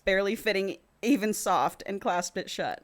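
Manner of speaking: measured audiobook-style reading; story narration. A narrator's reading. Co-host reads a romance novel to the other, measured narration. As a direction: read the passage aloud evenly.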